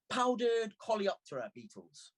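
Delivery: put-on high, triumphant girl's cry; bouncing with glee; gleeful shout. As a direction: announce it like a prize. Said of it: "and shouted".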